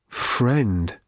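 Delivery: a lightly croaked weary robot word; a hint of a broken robot croak; pathetic croak. A narrator's reading. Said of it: "croaked the robot pathetically".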